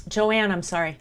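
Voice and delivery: talking through pizza; mouth full. Real, not acted. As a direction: mouth full, just choked. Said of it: "I'm choking on my pizza".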